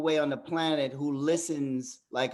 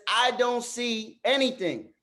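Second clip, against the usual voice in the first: lightly voiced Simba; 5 semitones higher, slower than usual. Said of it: "He says".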